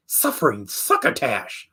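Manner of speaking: slushy lisp on "suffering succotash"; spray the s sounds of "suffering succotash"; "suffering succotash" with a cartoon cat's wet lisp; Sylvester. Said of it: "his signature lisp".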